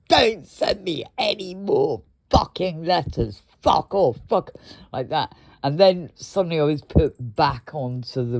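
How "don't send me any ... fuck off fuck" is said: retold angry rant. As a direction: replay the furious call with some heat. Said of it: "I was going".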